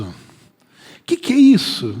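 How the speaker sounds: lento, agudo e espantado; espanto arrastado. Retold or imitated. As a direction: arraste a pergunta, atônito. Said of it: "Aí você fala". (pergunta espantada e lenta, sem acreditar)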